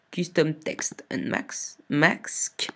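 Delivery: "Mask" said as a slow, effortful tongue-twister; struggling to pronounce. Real, not acted. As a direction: labour slowly through "Text and Max, Mask". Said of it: "c'est dur à dire".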